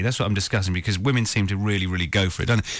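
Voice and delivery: normal talking voice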